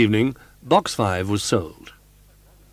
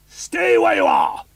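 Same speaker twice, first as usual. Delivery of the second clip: slow, loud thundering command; thundering shout; 7 dB louder, slower than usual. A narrator's reading. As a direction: nail him to the spot. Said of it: "with a thundering".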